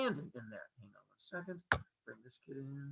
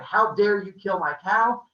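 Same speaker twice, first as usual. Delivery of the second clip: loud, indignant acted accusation; mildly raised voice of outrage; angry yelling; 6 dB louder than usual. Apollo yelling back at Maya over his cow, indignant. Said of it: "they're yelling back and forth".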